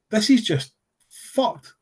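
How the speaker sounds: slow, high, hushed dismay; slowed-down heartbroken aside; stunned disbelief. Retold or imitated. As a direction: let it sink in, disbelieving. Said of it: "and I'm sitting there like".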